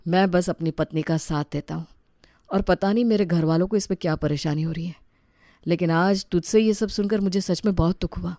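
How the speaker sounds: soft, hurt reply; husband hurt by gossip, soft. Acted. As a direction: speak quietly, wounded.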